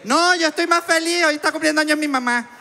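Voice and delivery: very high, excited Venezuelan outburst; hammed-up happy babbling; manic cheerfulness. Excitable reply after being called anxious.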